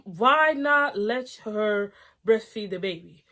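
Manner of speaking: slowed reading of the line; reading the post out slowly; slow plain reading. Shown as a demonstration. Reading the post to viewers, slow and plain. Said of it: "That's what I'm thinking".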